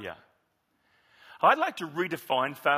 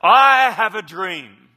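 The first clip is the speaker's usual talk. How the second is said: slow, much louder, each word held; Martin Luther King oratory; 12 dB louder, slower than usual. Acted. A pastor quoting the speech to the congregation, slow ringing declamation. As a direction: ring out the famous line. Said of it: "And then he says".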